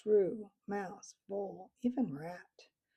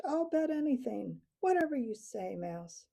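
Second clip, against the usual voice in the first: screech; 4 semitones higher than usual. Acted. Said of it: "Snow screeched".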